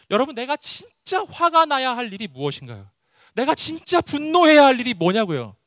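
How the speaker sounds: high, forceful challenge; impassioned preaching. Real, not acted. Preacher challenging the congregation on true anger, impassioned.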